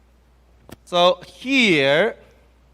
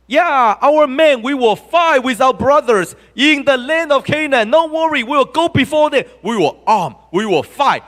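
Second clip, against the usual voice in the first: eager promise; 5 semitones higher than usual. Retold or imitated. Tribes voiced making eager promise.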